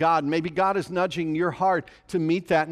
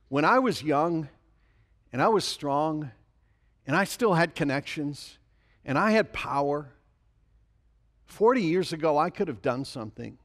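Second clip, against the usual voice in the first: weary Moses. Retold or imitated. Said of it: "He's saying".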